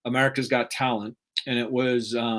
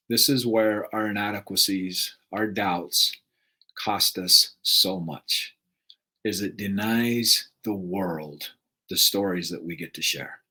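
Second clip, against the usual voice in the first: emotional low; 4 semitones lower, slower than usual. Real, not acted. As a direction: let the voice sink with regret. Emotional slow close.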